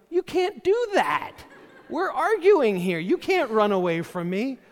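hammed-up angry husband yelling; mock shouting. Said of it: "And I was like".

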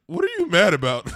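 high, loud challenging question; mock confrontation. Charlamagne not backing down from Birdman, loud imitated challenge. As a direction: call him out, imitating the radio host. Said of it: "but he was like".

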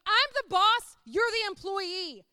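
loud, high, booming declaration of authority; Jesus as the boss. Acted. Preacher voicing the boss of our lives, loud and commanding. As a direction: preach it out forcefully as the one in charge. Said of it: "Jesus is up there going".

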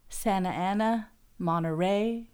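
Santa Ana and Monterey with silent T's; dropped T's. Shown as a demonstration. Listing local city names, "Santa Ana, Monterey" without T's. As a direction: say "Santa Ana, Monterey" as "Sanna Ana, Monneray", slowly. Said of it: "we don't pronounce the T's".

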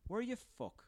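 sharp high "were you, fuck?"; mock disbelief. Hungover friend scoffing at the Dalai Lama, high disbelief. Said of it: "call you up and be like".

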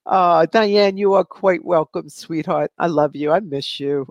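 ordinary delivery

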